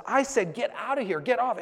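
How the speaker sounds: loud, high, imposing order to clear off; retold yell. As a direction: bark it like a guard chasing someone away. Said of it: "he started yelling up".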